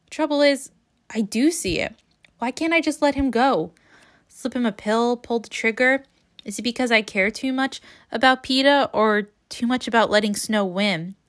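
measured reading aloud from a novel; understated first-person book narration; story narration. A narrator's reading. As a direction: read the heroine's inner questioning. Reads a passage from the novel.

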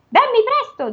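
high ogre command. Acted. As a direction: order the wife as the ogre. Ogre orders wife.

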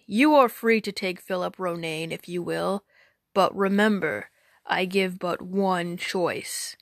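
slow stern giant. Acted. Giant warns Robin.

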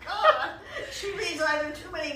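laughing, loud and high. Real, not acted. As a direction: burst out laughing mid-sentence. Group laughing at racy story.

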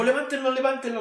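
imitated urgent call; retold shouted order. Retells preacher ordering people.

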